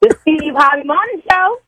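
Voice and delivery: high, sing-out show name; high-voiced playful announcement; her tone on request. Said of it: "Tell me in your tone".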